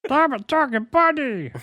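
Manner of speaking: high, strained joke voice with mock Jamaican accent; Bobcat Goldthwait doing Jamaican. Cohost answering a dare, high comic fake Jamaican accent. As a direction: talk out of the corner of your mouth, badly faking Jamaican. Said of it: "Bobcat Goldthwait doing a Jamaican accent".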